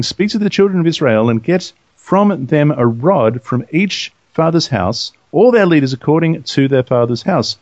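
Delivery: slow, measured reading aloud; scripture reading. Acted. Co-host reads the Lord's words to Moses, measured scripture reading. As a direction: read it out in deliberate phrases.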